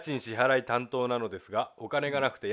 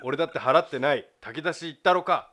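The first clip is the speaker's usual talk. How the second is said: mock abuse; 4 semitones higher, 5 dB louder than usual. Shown as a demonstration. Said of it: "と罵ってください".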